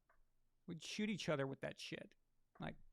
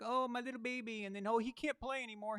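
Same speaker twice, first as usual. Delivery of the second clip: lightly voiced doting mom, higher; a hint of a fussing mother, cooing; mocking mommies; 5 semitones higher than usual. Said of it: "and be like".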